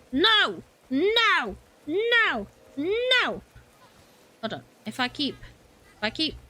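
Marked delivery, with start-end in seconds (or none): 0.1-3.4 high, drawn-out nos; repeated high-pitched cries of dismay; panicked. Real, not acted. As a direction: wail each no higher in alarm. Panicked shouting at the game.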